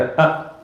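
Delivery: "a" cut short with a glottal catch; hamza glottal stop. Shown as a demonstration. Teacher showing how some Arabs sound the hamza, glottal stop. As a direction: say "a" as an abrupt hamza. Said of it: "make the hamza like a".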